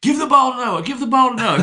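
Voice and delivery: loud, high-pitched mimicked shout; imitated courtside yell, urgent and high; coach yelling. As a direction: holler like a coach directing players. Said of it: "his coach would yell".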